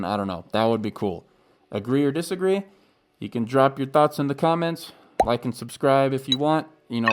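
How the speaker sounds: speaking through a face mask; muffled voice behind a mask. Real, not acted. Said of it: "I'm sorry about all the muffled audio".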